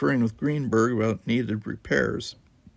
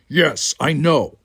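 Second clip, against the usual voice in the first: slow, louder dry sarcasm; weary sarcasm; sarcastic; 6 semitones higher, 7 dB louder, slower than usual. Acted. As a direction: state the obvious with scorn. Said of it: "Worf said sarcastically".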